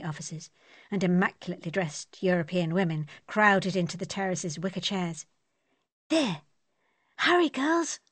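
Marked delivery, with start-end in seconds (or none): 6.1-8.0 put-on high, eager call to the girls; excited call. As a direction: hurry them along brightly. Ivy calls friends across terrace.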